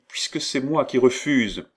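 high, exasperated objection; protesting cry. A narrator's reading. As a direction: raise the pitch in baffled protest. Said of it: "s'écria Catherine".

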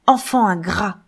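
un peu plus fort, reproche lancé; s'écrie. Acted. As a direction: lance le reproche à pleine voix. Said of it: "s'écrie-t-il". (Bernold reproche à sa fille son ingratitude, en s'écriant)

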